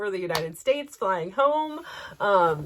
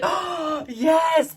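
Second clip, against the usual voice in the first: gasp, then high, loud approval; imitated delight; 8 semitones higher, 5 dB louder than usual. Hotel clerk shown a surprise, delighted. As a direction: exclaim it high and thrilled.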